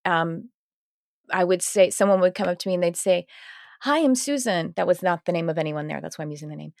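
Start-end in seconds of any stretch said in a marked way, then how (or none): 3.8-4.7 higher-pitched mock introduction; lightly voiced acquaintance saying hello; acted greeting. Acquaintance introducing herself at a work event, higher-pitched retold greeting.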